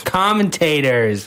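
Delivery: drawn-out South African "Commentators"; South African accent. Retold or imitated. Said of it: "That's a very South African accent".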